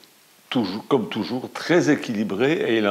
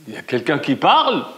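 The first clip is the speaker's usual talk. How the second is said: surprised question; 6 semitones higher, 6 dB louder than usual. A narrator's reading. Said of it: "elle demande".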